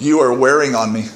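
laughing through the wife's words; retelling her line while giggling; wife quoted laughing. Retold or imitated. Husband retells wife's jab, laughing. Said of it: "and she goes".

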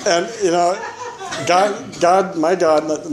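high, slow words through leftover laughter; gasping out God between laughs; laughing. Real, not acted. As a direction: say it still laughing at the irony. Still laughing at the irony.

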